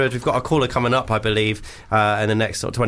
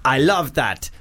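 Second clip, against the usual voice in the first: mock Arabian accent, slightly higher; a hammed-up panto Arabian accent reading a listener email; reading a listener's email in a silly Arabian accent; 4 semitones higher than usual. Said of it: "That was, uh, an Arabian accent".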